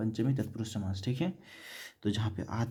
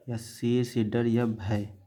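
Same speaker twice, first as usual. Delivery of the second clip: slow dictation; slower than usual. Shown as a demonstration. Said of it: "teacher dictates meaning slowly".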